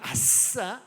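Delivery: acted little cheer of 아싸; mock self-congratulation; self-pleased exclamation. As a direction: cheer yourself on with a stretched 아싸. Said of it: "그때 뭐라고 감탄하죠".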